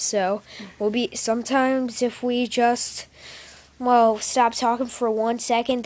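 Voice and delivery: talking through hiccups; words broken by hiccups. Real, not acted. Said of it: "We both have the hiccups".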